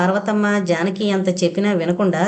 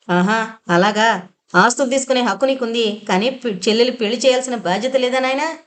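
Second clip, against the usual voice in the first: angry sarcasm; 3 semitones higher than usual. Acted. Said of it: "మరి కాస్త కోపంగా అడిగింది వ్యంగ్యంగా".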